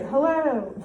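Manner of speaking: a high, emphatic exclaimed hello; exclamation. Shown as a demonstration. Teacher quizzes pupils on punctuation, exclaimed. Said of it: "how would you punctuate".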